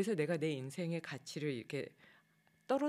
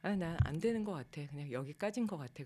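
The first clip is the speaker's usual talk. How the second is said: retold self-frustration. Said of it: "내가 나한테 막 화를 내고".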